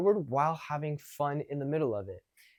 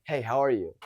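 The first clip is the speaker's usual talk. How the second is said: mildly confrontational greeting; negative; 2 semitones lower than usual. Shown as a demonstration. Coach imitates how many guys approach, negative. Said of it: "and it's, it's negative".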